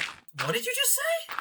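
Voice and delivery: high, slow, incredulous question; stunned disbelief. Retold or imitated. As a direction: ask it as if you can't believe your ears. Retells her stunned reply again.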